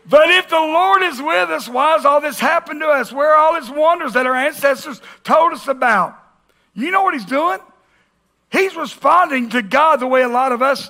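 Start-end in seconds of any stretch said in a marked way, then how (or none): 0.1-6.2 high, mock British accent; hammed-up English protest. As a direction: put on a bad British accent. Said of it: "I hear it in an English accent".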